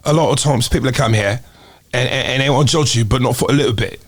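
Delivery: improvised British accent demo; amateur British accent; put-on British accent. Shown as a demonstration. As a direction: try out a British accent, measured phrasing. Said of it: "British accent".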